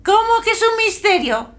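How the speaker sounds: shrill cat shriek. Acted. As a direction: screech it like an outraged cat. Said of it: "Chilla el gato".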